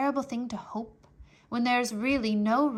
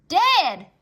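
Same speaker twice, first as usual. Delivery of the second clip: put-on higher girl's voice, loud and flat-out; blunt Mig; 7 semitones higher, 13 dB louder than usual. Mig answering the soldier, higher and loud. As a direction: blurt it out.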